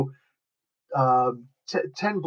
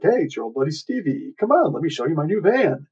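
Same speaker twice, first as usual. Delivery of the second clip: sing-song coaxing, pitch swooping up; hammed-up old-buddy invitation; mock friendly luring; 3 semitones higher than usual. Disguised hero coaxing his buddy to the van, mock friendly luring.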